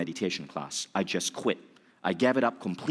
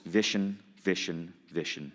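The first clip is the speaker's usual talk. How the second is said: stern voice; 3 semitones lower, 3 dB quieter than usual. Retold or imitated. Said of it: "intense voice".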